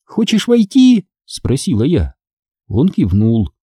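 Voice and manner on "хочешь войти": high, drawn-out taunting question; teasing. A narrator's reading. Sister behind closed door to brother, teasing. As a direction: dangle the offer slowly. Winner teases locked-out brother.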